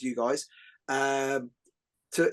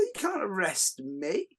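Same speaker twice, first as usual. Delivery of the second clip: slow deliberate taunt; 4 semitones higher, slower than usual. Retold or imitated. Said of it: "I said".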